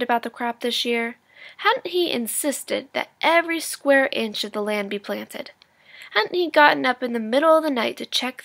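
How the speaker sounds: lively read-aloud storytelling voice; engaged storybook narration for students; story narration. A narrator's reading. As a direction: read it like a teacher sharing a chapter with the class. Teacher reads chapter aloud.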